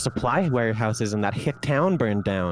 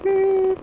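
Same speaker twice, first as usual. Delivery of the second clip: high robotic beep; 4 dB louder than usual. Acted.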